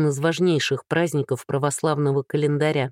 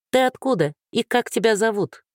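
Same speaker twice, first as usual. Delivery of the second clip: shouted out; 7 semitones higher than usual. A narrator's reading. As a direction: call out boldly and high. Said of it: "выкрикнула самая бойкая".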